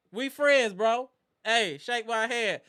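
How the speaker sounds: lightly voiced battle rap swagger, slowing on the last line; an imitated performer's voice. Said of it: "In my Jay Black voice".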